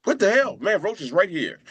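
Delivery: a high, startled "what the hell" at spotting Roach; surprised exclaim. Retold or imitated. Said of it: "It's like".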